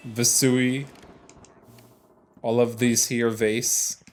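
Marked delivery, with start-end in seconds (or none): 0.1-0.9 Vasui, made-up plural ending in soo-ee; invented plural. Shown as a demonstration. Guessing the plural of vase, Vasui said as vuh-SOO-ee. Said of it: "whatever the plural is".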